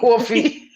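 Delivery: Coffee with a long rounded caw vowel, Baltimore style; Coffee in a Baltimore accent. Shown as a demonstration. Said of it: "I do say coffee".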